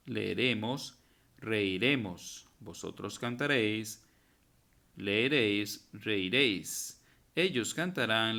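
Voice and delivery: rhythmic drill, stressing each verb ending; reciting conjugations. Shown as a demonstration. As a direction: chant the future tense like a class drill, slowing on the last forms. Teacher chants the future conjugation. (recitación rítmica de conjugaciones para la clase)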